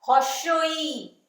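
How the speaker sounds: very slow, stretched हर्षई; slow drawn vowel name. Shown as a demonstration. Teacher naming the vowel very slowly. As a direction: draw the word out for small children. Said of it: "उसके बाद".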